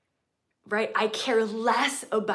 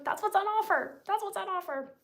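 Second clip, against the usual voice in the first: much higher, sing-song "That's what's on offer"; playful high voice; 13 semitones higher than usual. Shown as a demonstration. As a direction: tease it up high.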